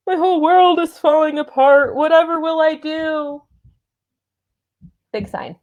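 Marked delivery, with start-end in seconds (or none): 0.1-3.4 high, breathy helpless damsel; fluttering cries for help. Pretend. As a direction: play the swooning damsel in distress.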